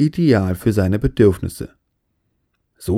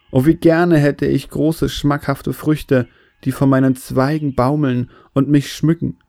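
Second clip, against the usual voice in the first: higher, lightly plaintive plea; ashamed tree, mock-tearful; 3 semitones higher than usual. Ashamed baobab begging God for fine fruit, plaintive. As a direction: play a mildly woeful, wishing tree. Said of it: "Der arme Baum weinte vor Scham".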